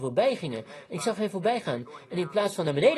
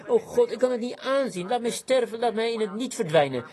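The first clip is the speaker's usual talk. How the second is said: higher-pitched retold prayer of despair; anguished plea; 5 semitones higher than usual. Preacher retelling his prayer at a shameful vision, anguished plea. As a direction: plead to God, mildly anguished.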